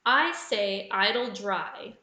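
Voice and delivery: spelled out slowly, word by word; slow and clear. Shown as a demonstration. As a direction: read the anagram slowly and deliberately. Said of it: "is an anagram for which actress's name".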